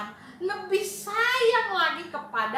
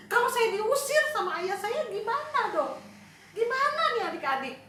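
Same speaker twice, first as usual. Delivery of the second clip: anxious youngest son fretting, rising toward the end; a son dreading his father's anger, growing frantic; worried son. Acted. Anxious son fretting on his way home to father.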